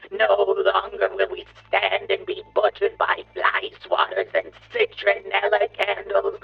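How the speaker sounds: booming megalomaniac bug ranting; evil villain rant. Acted. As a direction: roar it at the puny humans. Villain gloats over humanity.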